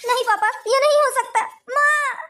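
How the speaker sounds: wailing daughter in shocked denial; crying in grief. Acted. Daughter pleading with her dead mother to open her eyes, crying. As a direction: cry out in grief, voice swooping. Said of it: "दीदी रोइए मत".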